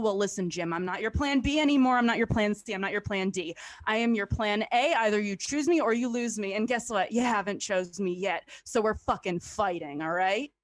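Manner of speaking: heated wrestling promo yelled at the bottle. Acted. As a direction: tell the whiskey off like a heel. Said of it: "cut a wrestling promo against the only man".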